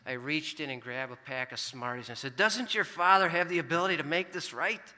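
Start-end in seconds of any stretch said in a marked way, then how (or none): 2.3-4.9 stern, higher and louder fatherly lecture; stern dad lecturing his son. Retold or imitated. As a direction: scold like a father setting things right. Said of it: "in a stern, lecturing voice".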